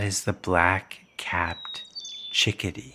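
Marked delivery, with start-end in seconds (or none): 2.3-3.0 hushed whisper. Pretend. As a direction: breathe the word softly. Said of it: "Why are you whispering?".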